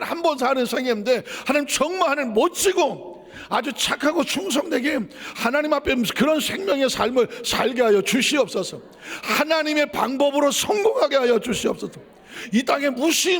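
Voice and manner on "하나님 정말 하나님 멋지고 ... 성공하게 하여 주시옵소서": fervent prayer. Acted. Prayer at full force.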